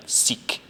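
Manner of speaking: "seek" said slowly, as Scots for "such"; Scottish pronunciation. Shown as a demonstration. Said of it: "supposed to sound more, uh, Scottish".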